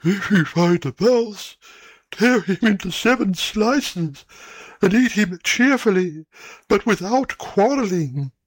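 hint of a fussy old owl; old owl's voice. A narrator's reading. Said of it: "And the old owl said".

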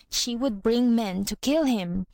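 usual speaking voice

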